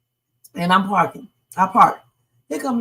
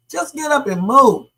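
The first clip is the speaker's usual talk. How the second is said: louder and higher, insistent; emphatic repeat; 5 semitones higher, 4 dB louder than usual. Shown as a demonstration. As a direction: press it home this time: get up and move. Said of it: "What's the point of having this conversation?".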